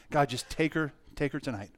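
soft, hushed plea to God; retold prayer. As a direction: pray it quietly, letting it sink. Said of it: "and I prayed to God".

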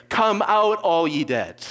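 high, loud commanding call to the dead; cry of command. Retold or imitated. Jesus calling the dead out on the last day, commanding shout. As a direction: summon every grave open. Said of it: "give the cry of command".

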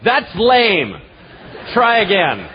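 laughing dismissal, acted; bursting out laughing. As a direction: jeer as if cracking up. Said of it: "start bursting out laughing and going".

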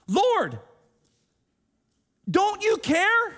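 loud, high and slow, pleading in frustration; adamant complaint. Acted. Martha demanding Jesus notice her, adamant. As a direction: demand it, stretching every word. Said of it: "she's adamant".

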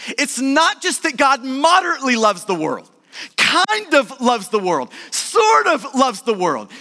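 mock each half-hearted "sort of"; stress on the hedges. Shown as a demonstration. Preacher mocking a lukewarm love, hedges stressed. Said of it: "front-loading that verse with emphasis".

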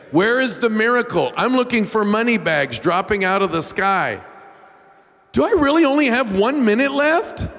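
pleading with God. Retold or imitated. Man on the shower floor begging God for his money, rising desperate plea. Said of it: "crying out to God".

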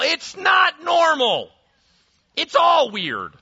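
loud high slow punch on not; emphatic shout. Real, not acted. Preacher telling churchgoers this isn't normal, shouting. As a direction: refuse to let them call it normal.

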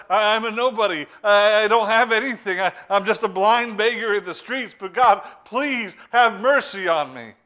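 loud, high beggar's plea, slowing at the end; a blind beggar crying for mercy; humble pleading. Retold or imitated. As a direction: beg from the bottom of your heart. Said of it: "he didn't demand, but he sought it".

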